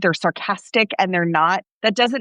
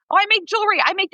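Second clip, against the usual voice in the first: high, eager joking tone; mock eager chime-in; 11 semitones higher, faster than usual. Teacher jokingly chimes in to her students with mock excitement. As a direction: pretend to join in eagerly. Joking she has a side hustle too.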